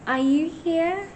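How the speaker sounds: slow, loud call into an empty room; calling out to a spirit. Real, not acted. A ghost hunter calls to Lady Anne, slow and loud. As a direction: project the voice to reach the ghost.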